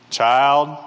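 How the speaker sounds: put-on low, controlled call to a child; a parent's first, level warning; restrained parent's warning. Parent calling child, escalating.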